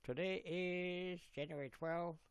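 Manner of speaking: Canadian-accent host impression, phrase endings lifted; Nick's Brick Life. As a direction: imitate a Canadian video host's greeting. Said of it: "Let's do his accent from his last video".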